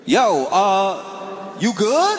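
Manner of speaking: high, alarmed, up in the voice; worried friend. Retold or imitated. Friend on the phone fearing he's kidnapped, high alarmed pleading. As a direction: press him hard, you fear trouble.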